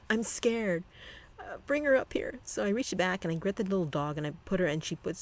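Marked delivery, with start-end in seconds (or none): 0.1-2.4 imitating scared wife. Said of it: "she goes".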